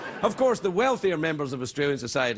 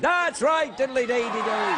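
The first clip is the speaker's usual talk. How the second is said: mock Irish lilt; 7 semitones higher than usual. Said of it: "Saint Patrick's Day".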